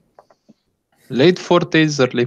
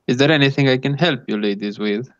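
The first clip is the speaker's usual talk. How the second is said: put-on light Italian accent, polite gentleman; a hint of an Italian accent, courteous; 2 semitones higher than usual. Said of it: "With his obvious Italian accent".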